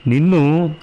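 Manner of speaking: the second నిన్ను bursts out in rage; furious cry of నిన్ను; furious outburst. A narrator's reading. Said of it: "అంటూ ఆవేశంగా దిగాడు మెట్లు".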